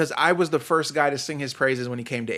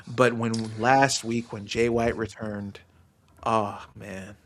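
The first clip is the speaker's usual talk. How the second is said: moved; 6 semitones lower, 6 dB quieter than usual. Real, not acted. Moved recalling the return.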